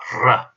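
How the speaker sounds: "R" trilled, with the tongue tip rolling; rolled Russian R. Shown as a demonstration. Teacher showing learners how the Russian R is rolled. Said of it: "but it's rolled more".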